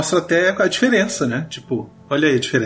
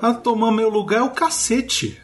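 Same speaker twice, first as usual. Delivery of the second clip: mock outrage; 10 semitones higher than usual. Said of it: "Aí eu falo assim".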